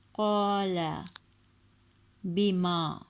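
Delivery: قال and بما with long drawn vowels; stretched recitation. Shown as a demonstration. Teacher reciting Quran words with stretched alif. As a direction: hold the alif in قال and بما for two counts. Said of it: "اس طرح سے".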